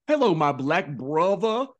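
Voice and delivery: mock brother greeting. Mocking Jasmine's forced greeting.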